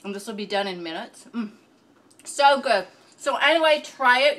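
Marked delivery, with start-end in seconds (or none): 2.2-4.4 excited, louder. Real, not acted. Enthusiastic wrap-up after tasting.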